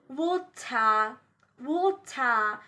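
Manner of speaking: "water" ending in AH with no R. Shown as a demonstration. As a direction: end "water" on an open AH. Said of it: "A H sound".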